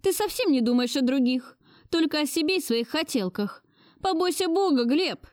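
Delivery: put-on high-pitched scolding old lady; stern grandmother. A narrator's reading. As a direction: scold him like an imperious grandmother. Grandmother voiced higher. (властная бабушка отчитывает внука)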